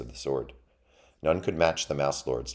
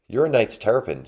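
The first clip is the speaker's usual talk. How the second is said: put-on high, loud young mouse; awed recognition; 8 semitones higher, 7 dB louder than usual. A narrator's reading. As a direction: exclaim it in sudden amazement. Mouse recognises a legendary knight.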